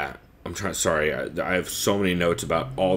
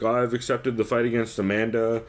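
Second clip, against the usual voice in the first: mock Brazilian-accented English. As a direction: quote her in a put-on Brazilian accent. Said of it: "I'm doing a Brazilian accent".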